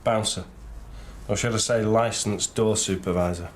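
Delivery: understated lack of enthusiasm; unenthusiastic. Acted. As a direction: say it without any thrill. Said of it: "You don't sound too thrilled".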